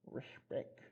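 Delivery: Respect whispered, no voice. Shown as a demonstration. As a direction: breathe the word Respect. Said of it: "They spelled it wrong".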